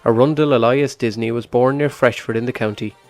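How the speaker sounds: scripted voiceover read over music; documentary narration. Acted. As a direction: read it like a radio feature intro.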